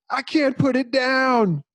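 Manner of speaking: high strained yell, slowed; desperate shout. Acted. Marine screams he can't kill the monster, desperate high shout. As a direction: cry out in despair as the gun fails. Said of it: "And then he shouted".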